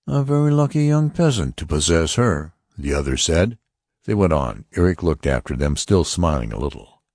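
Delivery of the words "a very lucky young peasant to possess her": higher, sneering soldier voice; sneering guard. A narrator's reading. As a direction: leer at the girl in a sly voice. Second lighter sneering.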